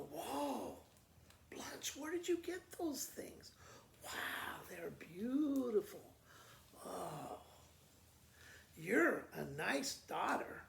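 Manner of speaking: amazed. Acted. Rose and Mama amazed at riches.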